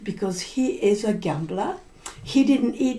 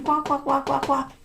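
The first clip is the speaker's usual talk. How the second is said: chicken noise; 3 semitones higher than usual. Retold or imitated. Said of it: "and the chicken came".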